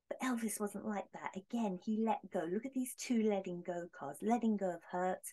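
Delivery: ordinary talk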